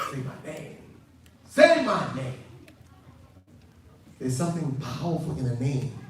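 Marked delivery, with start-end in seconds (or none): 0.1-0.8 low, soft demand; quiet retold order; low-key demand. First, softer take of demand. 1.5-2.4 demanding, louder on the repeat; insistent retold order; forceful demand. Quoted demand to say his name.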